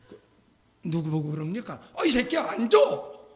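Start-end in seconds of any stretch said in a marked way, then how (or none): 1.9-3.2 detective cursing. Retold or imitated. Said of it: "이러는 거죠".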